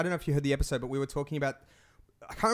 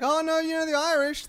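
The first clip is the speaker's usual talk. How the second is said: mock flustered excuse; 12 semitones higher than usual. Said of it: "And she's like".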